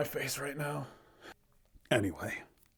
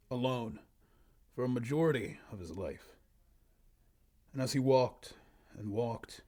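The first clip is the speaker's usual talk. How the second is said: story narration. Acted. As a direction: read it out like a solemn fantasy tale. Reads own old story aloud.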